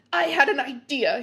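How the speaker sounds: exclaiming. Acted. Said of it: "he exclaimed".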